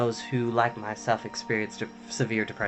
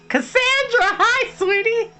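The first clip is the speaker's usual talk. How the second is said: high sing-song greeting; 5 dB louder than usual. Real, not acted. High-pitched viewer greeting.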